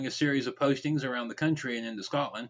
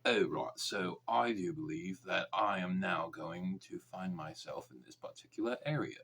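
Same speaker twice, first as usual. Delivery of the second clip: put-on posh Oxford accent; 5 semitones lower, 6 dB quieter than usual. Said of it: "one of those really posh English accents".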